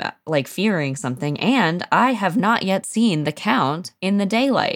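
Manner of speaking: ordinary delivery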